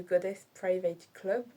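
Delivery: English accent. Shown as a demonstration. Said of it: "On a dit qu'on ne jugeait pas l'accent anglais".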